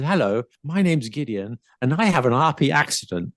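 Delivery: lightly put-on RP introduction; best RP accent. Shown as a demonstration. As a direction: present yourself in demonstrative RP. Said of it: "Shall I do my best R P accent now".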